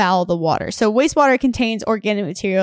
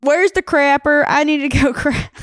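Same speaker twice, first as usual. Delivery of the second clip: put-on southern accent; 5 semitones higher, 3 dB louder than usual. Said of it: "your southern accent".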